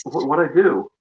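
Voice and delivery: muffled audio. Real, not acted. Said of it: "talking through a tube sock".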